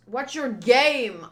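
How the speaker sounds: loud, slow demand about his game; corrected angry challenge. Acted. Reader correcting the misread line, loud challenge. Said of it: "Oh, your game, not your name".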